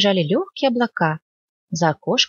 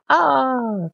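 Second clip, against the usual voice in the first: mock yell; 7 semitones higher than usual. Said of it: "для порядка закричал".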